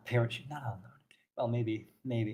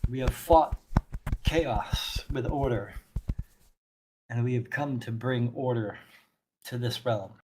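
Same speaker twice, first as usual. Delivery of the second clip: lightly voiced solemn zealot; grave, deliberate bringer of order; stern zealot priestess, measured; 2 semitones lower, 5 dB quieter than usual. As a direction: proclaim your mission in measured phrases. Plays NPC Orthelia.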